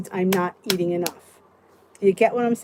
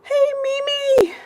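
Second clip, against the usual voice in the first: whispered greeting; slower than usual. Real, not acted. Greeting viewer in chat.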